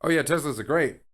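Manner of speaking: enthusiastic. Retold or imitated. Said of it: "if I went online and just went".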